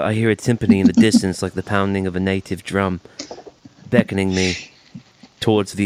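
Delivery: hammed-up Liverpool musing; mock Liverpool band accent. Playing music connoisseur for co-host, mock Liverpool accent. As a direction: put on a pretend Liverpudlian accent. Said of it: "you're going into a Beatles accent".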